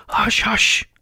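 urgent whispered shushing; hushed, hurried. A narrator's reading. Rabbit silences Alice, hurried whisper. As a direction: hiss a nervous warning. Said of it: "in a low, hurried tone".

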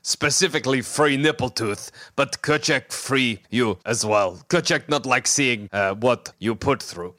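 lightly voiced simple creature, broken English; Kerchak's halting speech. Freeing the captive, lightly voiced halting creature.

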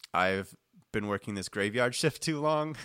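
mildly sleepy graveyard-shift voice; a touch of sleepiness, breaking into a laugh; sleepy monotone. Shown as a demonstration. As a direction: demonstrate a lightly weary monotone. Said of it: "like, sleepy".

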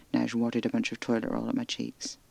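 plain reading voice

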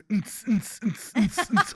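beatbox the club beat; mouth-made dance beat. Retold or imitated. Host imitating the waltzers' dance music with mouth beats. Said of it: "your background music is".

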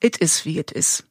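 low Kölsch saying; Kölsch dialect. Acted. Quoting Cologne's basic law to listeners, in Kölsch dialect. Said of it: "da gibt es unter anderem das Gesetz".

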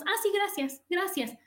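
half-hearted thanks. Shown as a demonstration. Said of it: "no nada más".

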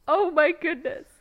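high excited cooing. Real, not acted. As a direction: gush over a cute pet. Cooing at the dog.

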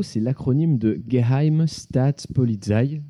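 Geheime Staatspolizei said slowly in careful German; German pronunciation. Shown as a demonstration. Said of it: "pardonnez mon allemand".

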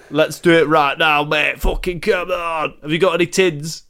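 lightly put-on London bloke; London geezer accent. Dead granddad asking grandson for tins, light London accent. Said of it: "why are you speaking like that, Grandad".

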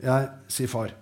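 calm, even reading of a story; story narration. A narrator's reading. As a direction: read the scene to listeners, steady and unhurried. Author reads his story aloud.

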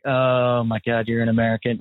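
mock contempt. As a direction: draw it out with imitated disdain. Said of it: "the amount of contempt".

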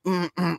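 closed-mouth straining hum; short muffled strained hums; tight-mouthed strain. Retold or imitated. Storyteller shows his mouth while holding it in, strained hums. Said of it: "My, my mouth is all".

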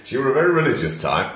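amateur stab at Yorkshire; self-conscious, hammy Yorkshire accent. Acted. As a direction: put on a light Yorkshire voice. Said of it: "Here comes the Yorkshire accent".

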